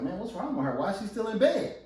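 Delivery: puzzled grumble, lifting on the question; lightly acted puzzled husband; mildly disgruntled husband. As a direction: wonder aloud, a touch put out. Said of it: "he's a little disgruntled".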